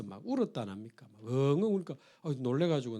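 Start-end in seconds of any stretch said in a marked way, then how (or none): none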